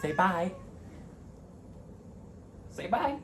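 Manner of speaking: high-pitched cooing to a pet; pet talk. Real, not acted. Prompting the pet to say bye.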